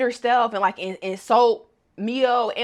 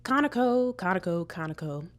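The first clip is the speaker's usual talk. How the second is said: taunting; 3 semitones lower, 5 dB quieter than usual. Acted. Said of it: "I'ma let myself go crazy".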